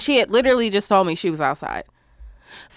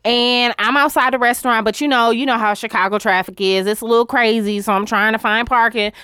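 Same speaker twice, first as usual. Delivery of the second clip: imitating the driver. Mimicking the delivery driver calling about parking, light sweet voice. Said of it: "She was like".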